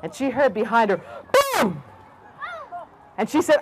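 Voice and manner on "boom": sudden boom. A narrator's reading. Sudden crash behind the rabbit.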